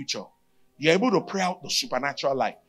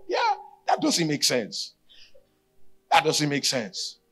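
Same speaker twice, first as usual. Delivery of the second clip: laughing disbelief; slower than usual. Real, not acted.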